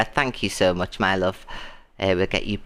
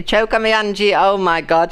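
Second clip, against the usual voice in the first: excited exclaiming; 8 semitones higher, 6 dB louder than usual. Real, not acted. Still reeling from the gift.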